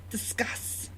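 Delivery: mock-verklempt, dropped soft; Coffee Talk Jewish lady impression. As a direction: hand it over like a sketch talk-show lady. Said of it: "coffee talk of this Jewish lady".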